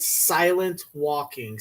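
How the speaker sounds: slow, weighty naming of "silent walking"; mock announcement. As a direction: present "silent walking" like a grand invention. Mock inventor announces the trend.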